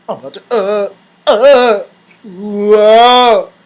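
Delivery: building groans into a drawn-out whoa; mock climax groans. Acting out his climax.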